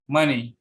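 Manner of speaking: "money" stressed on MON, falling after; first-syllable stress. Shown as a demonstration. Student presenter repeating a noun example, "money" stressed on MON. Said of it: "stress on the first syllable".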